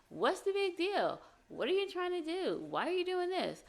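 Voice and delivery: dismissive. Retold or imitated. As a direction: mimic a fed-up, dismissive partner. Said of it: "instead of saying something like".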